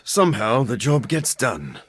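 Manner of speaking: breathy half-whispered aside. Acted. Doctor mutters a grudging compliment to the hunter, whispered. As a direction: drop to a whisper for the dig.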